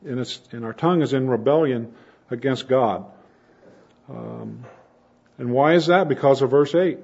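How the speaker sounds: normal talking voice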